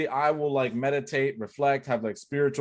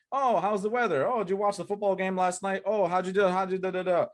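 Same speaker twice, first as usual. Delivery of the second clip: higher, chirpy mock small talk; 6 semitones higher than usual. Coach mocking endless small talk with prospects, chirpy and high. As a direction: parody empty chitchat.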